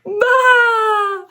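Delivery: playful lamb baa. Shown as a demonstration. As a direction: bleat like a lamb. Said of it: "Let's hear you baa one more time".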